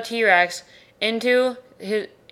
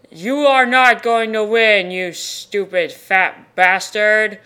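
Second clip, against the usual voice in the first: defiant hero; 4 dB louder, slower than usual. Acted. Hero defies villain.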